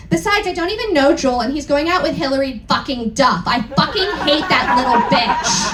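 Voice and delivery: disgusted. Retold or imitated. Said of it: "I said disgustedly".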